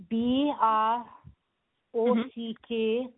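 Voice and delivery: letter by letter; spelling it out. Real, not acted. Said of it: "would you mind just spelling that for me".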